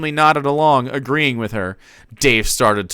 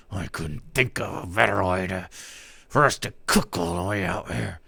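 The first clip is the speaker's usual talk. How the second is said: much softer, lower, muttered; beneath his breath; 5 semitones lower, 7 dB quieter than usual. Acted. Dave muttering to Jake beneath his breath, softer and lower. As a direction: say it under your breath. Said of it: "almost beneath his breath".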